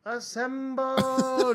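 distant drawn-out echo of a hero's cry; mock heroic echo; superhero call. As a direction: let it ring out slowly like an echo.

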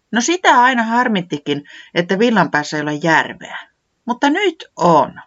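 a small woodland creature grumbling then brightening; high little säämies voice. Acted. Narrator voicing säämies, cheerful and high.

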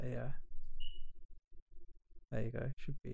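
mic slipping away from mouth; moving handheld mic. Real, not acted. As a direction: voice fading off a loose mic. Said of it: "you can just tighten it there".

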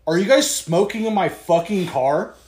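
retold stern confrontation, emphatic; accusing question, lightly acted; dead serious. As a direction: demand it like a mock-serious driver. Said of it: "he was dead fucking serious".

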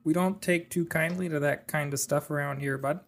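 laid-back Canadian talk, hammed up a little; mock Canadian accent. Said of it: "speaking like a true Canadian".

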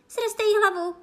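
high, loud screamed order; piercing shriek. A narrator's reading. Queen ordering a beheading, piercing shriek. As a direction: shriek it as a command. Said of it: "ječela královna pronikavým hlasem".

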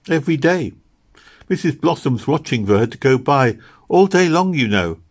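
lightly voiced little girl, earnest; earnest little Meg. Little girl answering Kitty about Posy, earnest. Meg's figure in dialogue.

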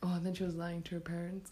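fast, breathy gossip whisper. Real, not acted. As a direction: whisper it like a juicy secret. Gossipy aside about the girl.

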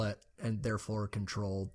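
secretive whisper. Acted. Conspiratorial aside about elf wealth.

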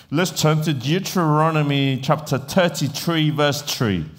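put-on Irish accent with "tirty-tree" for thirty-three. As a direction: imitate an Irish pastor announcing a verse. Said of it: "it's awesome the way they speak".

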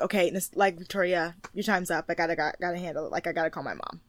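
understated, subdued nudge; low-key request. Pretend. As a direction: put it gently and quietly. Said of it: "I would probably be like".

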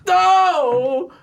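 high sharp cry of no; high yelp. Real, not acted. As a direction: yelp it out suddenly. Sudden sound for laugh game.

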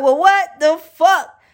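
high, slowed what the fuck; shocked reaction. Retold or imitated. Reacting to the affair, hammed-up shock. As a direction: drag it out high in mock shock. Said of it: "I was like".

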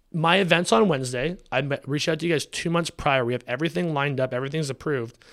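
reciting the timeline with held-back anger; angry. Retold or imitated. Telling the supplier everything was lined up, irritated. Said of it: "that was the most angry I've been".

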